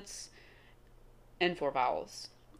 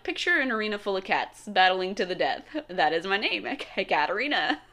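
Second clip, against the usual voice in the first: laughing; 3 dB louder than usual. Retold or imitated. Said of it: "I'm like".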